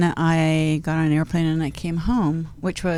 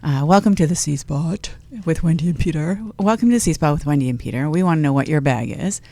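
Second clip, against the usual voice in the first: sexy radio voice. Acted. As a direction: purr it like a late-night DJ. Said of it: "put on my radio sexy voice".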